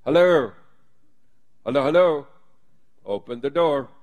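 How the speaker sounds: a hint of a desperate Peter at the door; Peter knocking urgently. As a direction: plead to be let in, hammed-up. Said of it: "Peter is knocking".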